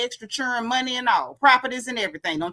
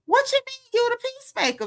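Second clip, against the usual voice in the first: retold holler; 12 semitones higher than usual. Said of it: "the way I hollered and the way that I screamed".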